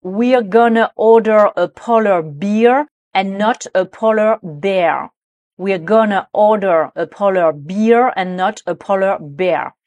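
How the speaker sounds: slow model sentence, BEER against BEAR; prononciation précise. Shown as a demonstration. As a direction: say BEER with EE and BEAR with AIR, distinctly. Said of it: "dernière phrase avec des mots qui se ressemblent". (lente diction soignée de « beer » et « bear »)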